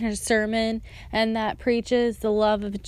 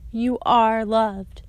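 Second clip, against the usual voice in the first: slow, gentle reassurance, lightly voiced; compassionate; slower than usual. Pastor gently reassuring a hurting young woman, slow and tender. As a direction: soften and slow down, like comforting someone. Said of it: "he was super compassionate about it".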